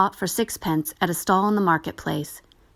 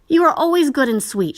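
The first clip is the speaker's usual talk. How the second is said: tender; 8 semitones higher, 6 dB louder than usual. A narrator's reading. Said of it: "kissing it tenderly".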